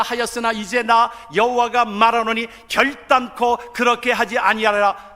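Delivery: loud, forceful Bible reading; scripture proclamation. Real, not acted. Preacher reading God's word to the congregation, loud proclamation. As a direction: proclaim the verse with full pulpit force.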